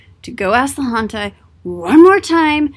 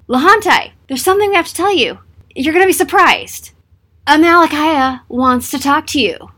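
mock excited announcement; 6 semitones higher, 4 dB louder than usual. Messengers announce it a third time.

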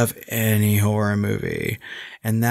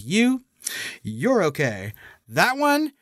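mock Roddy Piper; 4 semitones higher, slower than usual. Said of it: "He was like".

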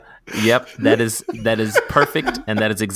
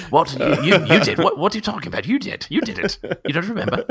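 affectionate nagging; 9 semitones higher, 4 dB louder than usual. Pretend. Voicing Percy's jealous reproach.

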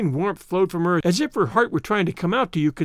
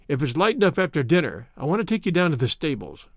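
usual speaking voice

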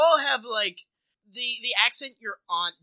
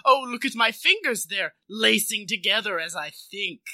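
peculiar villain voice. Pretend. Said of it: "talk in a peculiar way".

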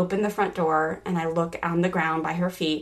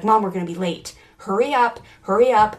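impatient daughter; 5 dB louder than usual. Retold or imitated. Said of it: "started to move into this role".

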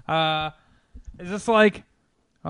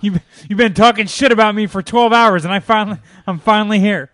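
loud, higher mock devil voice; Satan voice; 5 semitones higher, 10 dB louder than usual. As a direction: announce yourself as Satan, booming. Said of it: "Satan sounds like Batman".

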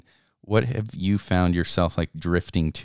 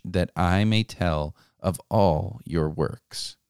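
scripture reading. Acted. Host reads the psalm to listeners, measured scripture reading. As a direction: read the psalm aloud with solemn weight.

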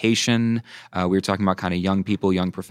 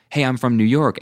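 higher-pitched, delighted acted hello; excited greeting; 5 semitones higher than usual. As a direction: greet a fellow countryman found abroad. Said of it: "suddenly you're best friends".

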